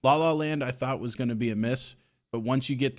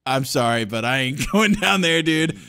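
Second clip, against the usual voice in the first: louder, higher mock protest; emphatic refusal; 4 semitones higher, 5 dB louder than usual. Buyer turns down cheap microwave, emphatic refusal. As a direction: put your foot down, rising to incredulity.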